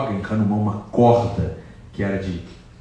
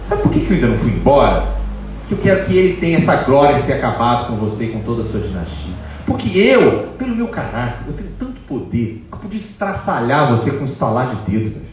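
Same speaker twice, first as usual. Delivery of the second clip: louder, proud and imposing; defiant Sita; 4 dB louder than usual. Acted. Sita standing up to Ravana, loud and imposing. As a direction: tower over him with your words. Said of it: "se impõe diante de Ravana assim".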